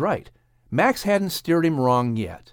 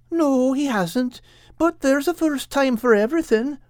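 Al; 12 semitones higher than usual. Acted. Al voiced in story.

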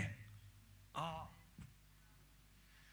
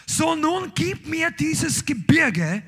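slow, loud and higher, with the word nun rising; slow demand; 5 semitones higher, 4 dB louder, slower than usual. Acted. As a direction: demand the mountain slowly and boldly. Kaleb's demand, preached.

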